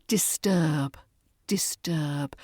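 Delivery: "disturb" with a long, drawn-out er; long er sound. Shown as a demonstration. Teacher models "disturb" for learners, long er vowel. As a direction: stretch the middle vowel of "disturb" like turn. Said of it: "That er sound in the middle is quite long".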